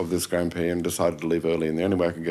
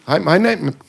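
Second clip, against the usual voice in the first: flubbed announcer read; 10 semitones higher, 8 dB louder than usual. Retold or imitated. Jermaine fluffing his PSA read.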